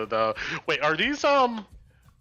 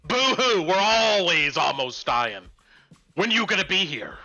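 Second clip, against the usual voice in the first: gravelly sly hobgoblin. Acted. Goblin boss mocks the party.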